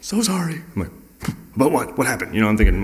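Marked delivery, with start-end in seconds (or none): 0.0-0.6 very high, panicked mock wail; frantic apology. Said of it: "called me frantically". 1.5-2.3 higher, puzzled questioning; alarmed confusion. Retold or imitated. Replying to the frantic caller.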